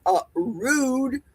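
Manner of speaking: lightly imitated catchphrase; Dustin. Quoting a friend's catchphrase about rudeness, mock offended. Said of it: "Like Dustin always says".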